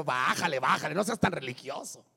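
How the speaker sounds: low, discouraging relative; toning someone down. Acted. Relatives tell new believer to calm down, toning down. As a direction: bring the pitch down and dampen their zeal. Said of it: "tus familiares que te ven entregarte a Dios".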